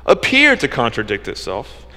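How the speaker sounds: appear leaned on, set apart; stress on appear. Shown as a demonstration. Preacher to the congregation, hitting appear. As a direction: land hard on the word appear. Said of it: "I emphasize the word appear".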